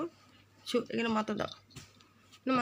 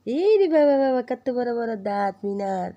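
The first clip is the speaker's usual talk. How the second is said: mock amazement; 3 semitones higher, 9 dB louder than usual. Cat shows its teeth.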